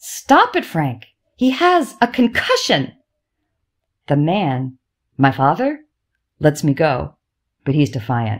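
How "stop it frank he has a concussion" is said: appalled, horrified alarm, very high and swooping. Narrator reading a mother telling the father to stop handling their son, horrified. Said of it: "Mom is horrified".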